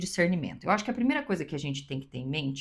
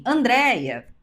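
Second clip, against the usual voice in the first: lightly acted call, raised in pitch; stranger calling out; 4 semitones higher, 4 dB louder, slower than usual. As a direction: call a name across the street. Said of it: "alguém diz assim". (chamado de um estranho na rua, um pouco mais agudo)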